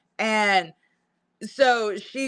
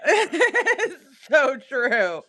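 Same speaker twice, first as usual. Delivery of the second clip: slow, drawn out through a laugh; 3 semitones higher, much slower than usual. Real, not acted. Agreeing with a viewer while laughing hard. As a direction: giggle the words out.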